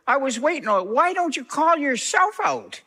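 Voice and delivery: high, laughing punchline. Retold or imitated. Pastor retelling Matt's jab at him, laughing high. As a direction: crack up on the jab.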